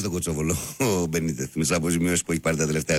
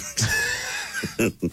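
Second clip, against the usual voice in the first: burst of laughter. Real, not acted. Laughing at his own joke.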